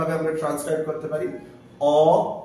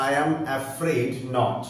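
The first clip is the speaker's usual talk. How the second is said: slow demo; 2 semitones lower, much slower than usual. Shown as a demonstration. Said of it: "teacher models the sentence".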